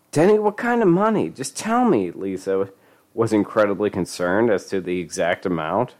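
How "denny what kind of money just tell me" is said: very high, agitated pleading; frantic woman. A narrator's reading. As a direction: argue up high in a panic. Lisa frantic in family argument.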